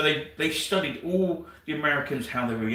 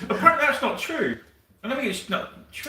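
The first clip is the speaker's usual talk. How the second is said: laughing; 10 semitones higher than usual. Real, not acted. Laughing reply.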